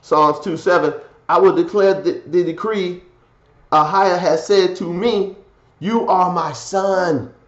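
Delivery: emphatic sermon delivery, key words punched; forceful preaching. Real, not acted. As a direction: preach it loud and rising, scripture and commentary. Reads scripture, preaching.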